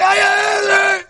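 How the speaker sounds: high, shouted brush-off; mock shout. Shown as a demonstration. Teacher showing the wrong way to speak, with a mock shout. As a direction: bark it out dismissively, way up high. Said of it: "That's not the way we talk".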